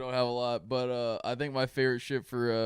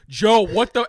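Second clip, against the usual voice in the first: mock alarmed aide; 8 semitones higher, 11 dB louder, slower than usual. Imitating press secretary.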